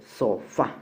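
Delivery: "sofá" split, with weight on FÁ; final-syllable stress. Shown as a demonstration. Teacher gives a vowel-ending example, stress on FÁ in "sofá". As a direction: say "so-FÁ" in two clear beats. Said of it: "La mayor fuerza de voz está en la última sílaba".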